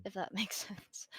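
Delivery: breathy whispered laugh through words. Real, not acted. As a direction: giggle it out under your breath. Self-conscious aside, breathy laugh.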